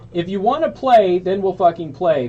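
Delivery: reading the threat with a touch of heat; mock angry threat. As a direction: lean into the menace a little, imitating. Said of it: "beginning to get angry".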